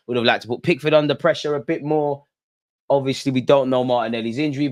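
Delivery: measured mock pundit read; post-match interview voice. Vlogger wraps up the win like a post-match player interview. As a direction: deliver it like a player in the mixed zone.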